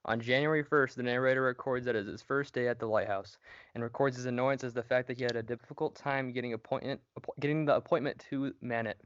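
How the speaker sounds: winded from running downstairs; breathless reading, gasping for air; out of breath. Real, not acted. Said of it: "I can't talk, I'm out of breath".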